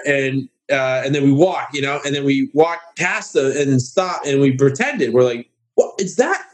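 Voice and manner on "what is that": high, slow, wide-eyed mock naive gasp; pretending to be a gullible out-of-towner; country bumpkin. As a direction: play the starstruck hick meeting a star. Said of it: "total just country bumpkin, naive".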